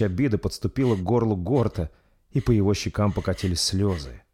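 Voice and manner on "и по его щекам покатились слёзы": plain reading voice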